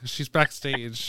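put-on Cockney accent. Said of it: "She suddenly has a Cockney accent now".

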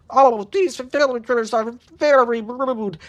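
high, slow gurgled voice; muffled gurgle, pitched high and drawn out; gurgling. A narrator's reading. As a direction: gurgle the words through liquid. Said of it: "she gurgled from under".

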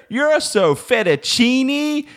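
high, slow, hammed-up Italian robot; mock Italian accent. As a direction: sing it out like a cheesy Italian waiter. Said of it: "if I heard".

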